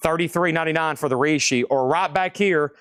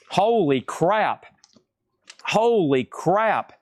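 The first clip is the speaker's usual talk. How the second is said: stunned; 3 semitones higher, much slower than usual. Real, not acted. Rare record appears.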